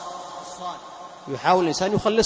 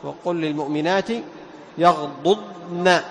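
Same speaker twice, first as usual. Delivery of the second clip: slow, measured Quran recitation; drawn-out chanted Quran reading; tajweed recitation; 3 semitones lower, slower than usual. Shown as a demonstration. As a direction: recite the verse with careful articulation.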